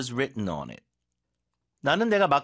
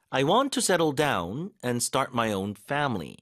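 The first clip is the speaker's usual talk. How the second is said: very slow, stress on want; slow model sentence; much slower than usual. Shown as a demonstration. Teacher modelling a second example slowly. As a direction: read it slowly, leaning on want. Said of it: "자, 그다음에".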